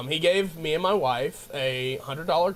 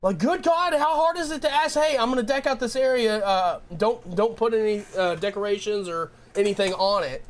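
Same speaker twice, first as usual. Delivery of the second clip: exasperated rant; 5 semitones higher than usual. Retold or imitated. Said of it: "I was like".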